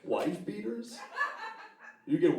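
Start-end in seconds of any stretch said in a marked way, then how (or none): 0.0-1.0 incredulous high squeak. Acted. Mock outrage.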